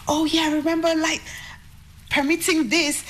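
high-pitched excited realization, re-enacted; retold frenzy. Daughter remembers approving the song for an advert, re-enacting her frenzy. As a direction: relive the sudden recollection, pitch jumping up. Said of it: "in that frenzy".

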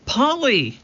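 high, delighted call of a name; a girl greeting her parrot; glad cry. A narrator's reading. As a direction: cry out happily at her return. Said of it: "Annie cried".

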